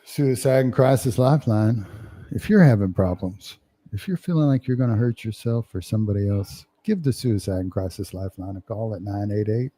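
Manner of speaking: smooth radio announcer read. Acted. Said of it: "is that your radio voice".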